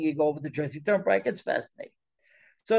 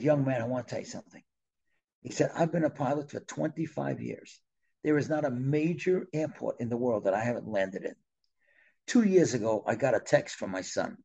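very serious; 3 semitones lower than usual. Retold or imitated. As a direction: retell an older pilot's grave confession. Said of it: "he got very serious".

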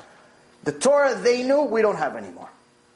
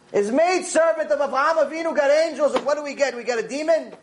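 high-pitched mock lament, no real sobs; aggrieved, incredulous retold complaint; retold tearful complaint; 6 semitones higher than usual. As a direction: protest the unfairness in a raised pitch. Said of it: "He's crying about getting a demon".

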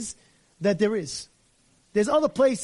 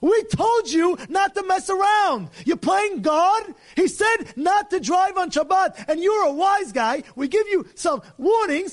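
stern court; 8 semitones higher, 3 dB louder, slower than usual. Acted. Sanhedrin scolding the driver.

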